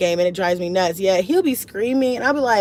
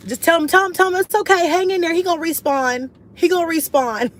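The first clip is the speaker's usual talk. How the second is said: much higher and louder, teasing comfort; playful high reassurance; 9 semitones higher, 4 dB louder than usual. Real, not acted. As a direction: tell him it's fine with a laughing lilt. Comforting crying son through viewer.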